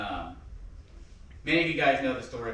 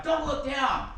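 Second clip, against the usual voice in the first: high-pitched retold scolding yell; imitated yelling; 14 semitones higher, slower than usual. Dad correcting the learner driver, imitated yelling. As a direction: imitate an urgent driving-lesson yell. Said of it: "He always yelled".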